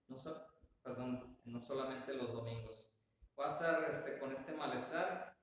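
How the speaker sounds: hiccuping, a bit hoarse; talking through hiccups. Real, not acted. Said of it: "hoy amanecí con hipo".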